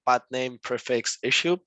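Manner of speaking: plosive pops on the p words; mic pops on the hard p's; popping p sounds. Real, not acted. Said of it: "Sorry about the pops".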